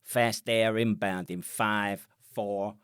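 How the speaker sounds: slow, deliberate countdown in a mock American accent; a clumsy American radio call, drawn out; imitating an American air controller's countdown with a bad American accent. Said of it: "in his American accent".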